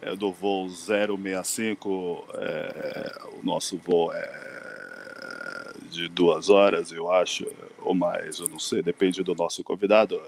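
low, slow captain's cabin announcement; airport announcement. Pretend. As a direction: announce it like a pilot over the intercom. Podcast opened as flight announcement. (anúncio de comandante de voo)

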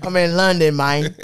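put-on laughing while faking a British accent; mock British accent through laughter. Host cracks up repeating his fake British accent line. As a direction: giggle through a put-on Londoner. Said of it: "No, that was London, man".

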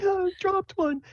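can't wait, tell me now; high hyper girlish voice; excited Sable. Acted. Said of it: "She's like".

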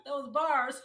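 loud laugh through the words. Real, not acted. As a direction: crack up while saying it. Co-host laughing at wordplay.

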